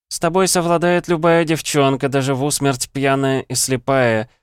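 high, giggling mockery; giggling taunt. A narrator's reading. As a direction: giggle it out, teasing. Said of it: "хихикала Кирана".

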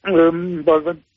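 tearful, voice breaking; crying while trying to explain; crying on the phone. Real, not acted. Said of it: "Weinst du gerade ein bisschen?".

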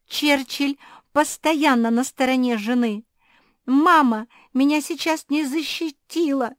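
high, loud tearful wail; sobbing wail. Acted. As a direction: cry it out. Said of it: "зарыдала Куки".

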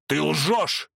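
high hoarse shout; hoarse cry. Acted. Vorski accusing Veronika, hoarse cry. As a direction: hurl the accusation, hoarse and loud. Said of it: "хрипло вскричал он".

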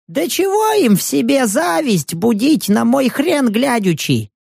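put-on old man's voice. Old vagrant thanking the hero while hurrying away. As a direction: play the grateful fleeing old man.

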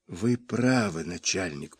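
faint whisper from the floor; weak, breathless whisper. A narrator's reading. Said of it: "прошептал я".

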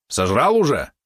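high, loud suspicious yap; yappy small dog. Acted. Valeron suspicious question.

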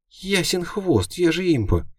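very high, slow cocky imp voice; snorting imp. A narrator's reading. Imp scoffing at her master's question, high snort. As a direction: scoff it like a smug tiny demon. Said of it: "фыркнула Балёнка".

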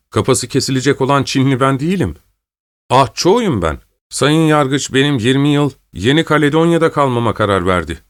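lightly voiced Chinese prisoner pleading his case; a touch of earnest protest. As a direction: explain the mistake insistently, lightly acted.

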